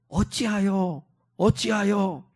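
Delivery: soft, drawn-out sighing question; acted, hushed groan of complaint; lament. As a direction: let each word fall away in quiet lament. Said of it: "말은 탄식입니다".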